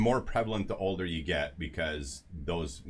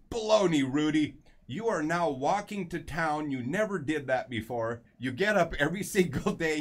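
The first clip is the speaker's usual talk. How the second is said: much higher and louder mock-scold; scolding wife; 7 semitones higher, 4 dB louder than usual. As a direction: belt it out like the wife cutting him off. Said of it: "his wife goes".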